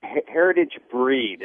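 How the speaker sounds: slow, careful "heritage breed" with the stress on "breed"; patient correction of a misheard word; clarifying correction. Real, not acted. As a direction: spell out "breed" plainly so the mishearing is fixed. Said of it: "About the what?".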